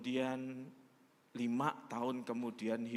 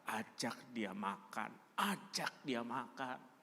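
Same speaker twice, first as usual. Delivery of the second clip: gentle inner voice; 3 semitones lower, 4 dB quieter, slower than usual. Retold or imitated. An inner voice speaking.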